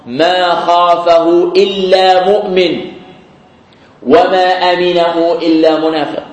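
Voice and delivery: slow, weighty, stress on إلا; solemn slow quote. Shown as a demonstration. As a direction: draw out each clause gravely. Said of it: "quoting al-Hasan slowly". (اقتباس بطيء رزين)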